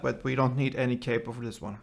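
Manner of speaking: ordinary delivery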